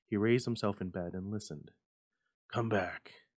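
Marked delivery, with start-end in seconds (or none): 2.5-3.2 tender. Acted. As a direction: coax her gently back. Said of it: "he said tenderly".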